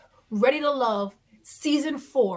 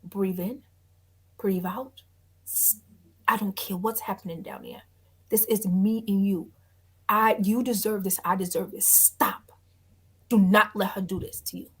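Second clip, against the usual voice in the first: calming, lower voice; 5 semitones lower than usual. Retold or imitated. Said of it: "he like".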